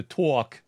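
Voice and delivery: New Yorker's TALK, spelled out as "tawk"; New York pronunciation. Shown as a demonstration. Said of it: "T A W K".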